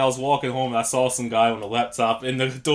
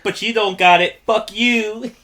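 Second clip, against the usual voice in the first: laughing taunt; 7 semitones higher, 5 dB louder, slower than usual. Retold or imitated.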